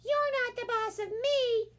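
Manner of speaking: high defiant kitten voice; high, cheeky kid talking back; defiant kitty. A narrator's reading. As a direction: sass back at his mother. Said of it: "said Skippy John Jones".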